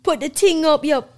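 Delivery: high, loud mock Jamaican accent. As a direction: put on a London roadman's Jamaican accent. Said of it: "talk in those Jamaican accents".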